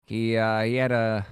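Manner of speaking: put-on thick Bronx accent with hesitant pauses; halting Bronx storyteller; Bronx character. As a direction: play a Bronx native remembering family. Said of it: "I go really far with the characters".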